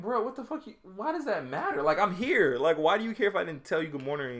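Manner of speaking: half-acted outrage at the girl's complaint; retold exasperated rant. Retelling his outburst at a girl upset over no good-morning text, exasperated and loud. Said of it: "I was like".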